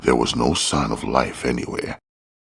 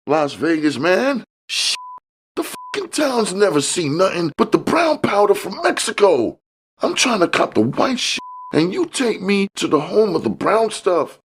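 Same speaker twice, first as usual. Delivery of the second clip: fuming Curtis. A narrator's reading. Curtis angry at George about the brown stuff, high fuming rant. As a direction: spit out the outrage at being misled. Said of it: "Curtis fumed".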